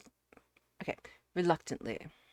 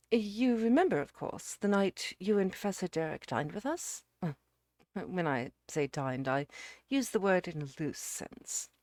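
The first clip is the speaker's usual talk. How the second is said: emphatic, raised-pitch opening with a settling aside; lightly voiced earnest suitor; 3 semitones higher, 6 dB louder than usual. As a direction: lightly play a man explaining himself. Narrator voices Jerry's explanation.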